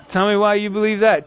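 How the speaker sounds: genuinely curious, open and inviting; sincere question. Shown as a demonstration. Inviting a skeptic to explain, sincerely curious. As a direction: ask because you really want to know. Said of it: "Two totally different things. Your manner matters".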